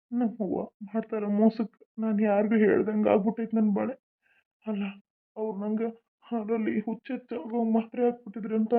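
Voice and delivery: soft, hushed thinking aloud; quiet aside. Acted. Husband plots to himself about the drugged milk, softly. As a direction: murmur to yourself so she won't hear.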